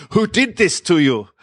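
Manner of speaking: hammed-up horrified hairdresser; screaming hairdresser. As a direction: shriek it like a flustered stylist. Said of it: "ran across the room screaming at, waving his hands".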